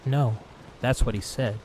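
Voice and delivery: insist, raising the voice. Acted. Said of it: "Then, louder".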